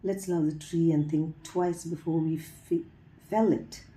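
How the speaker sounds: measured poem reading with lilting, falling lines; poetry recitation. Acted. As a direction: recite line by line, lifting the openings and pausing between. Reads a translated poem aloud.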